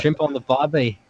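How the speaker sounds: amateur Aussie catchphrase with a British tinge; Australian accent sliding British. Pretend. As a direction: attempt Australian and land nearer British. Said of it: "No, see, that's kinda British".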